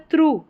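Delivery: थ्रू ending in a long "oo"; थ्रू, long final "oo"; OUGH as "oo". Shown as a demonstration. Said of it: "ऊ करके उच्चारण हो रहा है".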